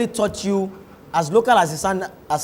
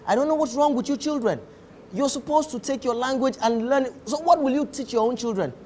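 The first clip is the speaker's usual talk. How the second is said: lightly put-on Queen's English, higher pitched scolding; imitated Queen's English; 5 semitones higher, 3 dB quieter than usual. Father lecturing his children, lightly imitated Queen's English reproach. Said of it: "switch over to Queen's English".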